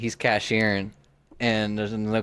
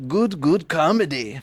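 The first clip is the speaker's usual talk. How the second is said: higher, drawn-out mock Asian accent; 6 semitones higher, slower than usual. Retelling the comedian's bit on the club's name, mock Asian accent. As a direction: lift the pitch into a slow caricatured Asian accent. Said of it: "he hadn't done the accent in a while".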